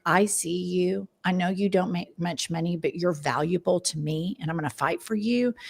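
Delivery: gently voiced campaign promise; mildly tender, quoting a candidate; empathetic. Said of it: "he has this real empathetic message".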